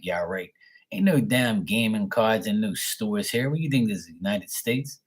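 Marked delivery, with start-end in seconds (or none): 0.0-0.5 sarcastic aside. Real, not acted. Aside doubting the scammer.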